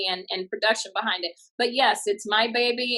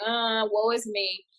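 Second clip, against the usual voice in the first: mock woe; slower than usual.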